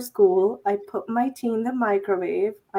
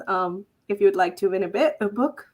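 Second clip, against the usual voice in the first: stumbling over words; tripping on the words; stutter; 3 semitones lower than usual. Real, not acted. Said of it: "I'm stuttering".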